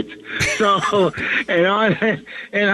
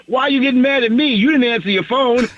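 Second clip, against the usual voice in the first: higher, fast and defensive; defensive Rock; 6 semitones higher, faster than usual. Retold or imitated. Rock protesting to his friend, higher and fast. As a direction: play him baffled and innocent.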